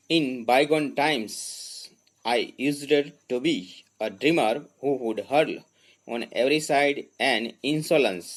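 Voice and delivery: very slow, deliberate verse recitation; slow classroom recitation with pauses between phrases; poem reading. Acted. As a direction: read the stanza out firmly, drawing out each phrase. Reads the stanza aloud again.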